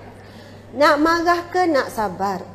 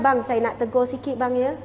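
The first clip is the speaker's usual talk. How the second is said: softer, careful wife raising a matter with her husband; gentle soft tone; 4 semitones lower, 5 dB quieter than usual. Acted. Wife gently raising a complaint with her husband at night, softer and careful. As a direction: ease into it gently, no edge in the voice. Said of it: "Nada dah jadi lain".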